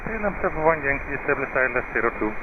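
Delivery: crackly radio voice; pilot over the radio. Real, not acted. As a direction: heard through a cockpit radio.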